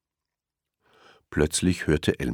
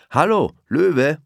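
higher, slow friendly hello; Elmar greeting; 11 semitones higher, 5 dB louder, slower than usual. A narrator's reading. Elmar greets the rushing lion, slow friendly hello. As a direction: greet him warmly and drawn out. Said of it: "sagte Elmar".

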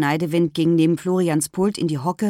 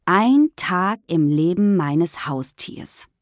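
slow, deliberate reading from the board; measured classroom read-aloud; slower than usual. A narrator's reading. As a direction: read the title out slowly, word by word. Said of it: "Ich las laut vor".

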